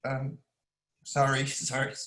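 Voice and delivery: real emotional apology, trying to carry on. Real, not acted. Host trying to get students started, emotional. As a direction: apologize while overcome with feeling. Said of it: "I'm emotional already".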